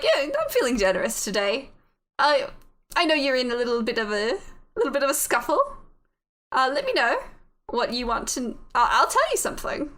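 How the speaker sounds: put-on British voice with a lilt; bad British accent. Voice in the head returns to offer a favour, put-on British accent. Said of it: "My horrible British accent".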